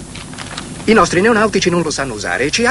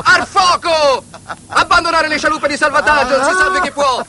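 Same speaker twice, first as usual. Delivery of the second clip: high hammed-up panic cry; alarmed shouting; 8 semitones higher than usual. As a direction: raise the alarm in mock panic. (grido d'allarme del nonno, finto panico)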